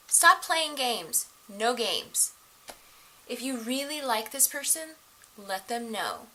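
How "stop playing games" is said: slow, louder, higher emphatic order; firm slow command to viewers. Real, not acted. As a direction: lay down the law slowly.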